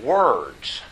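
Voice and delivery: "words" set off alone after a pause; emphasis on WORDS. Real, not acted. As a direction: announce "words" as the key term, standing by itself. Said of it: "here it is".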